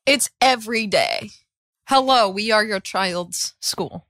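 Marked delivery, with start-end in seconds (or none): 1.9-4.1 slow, lower, prim school recording; robocall voice. Retold or imitated. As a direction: read it like an automated school announcement.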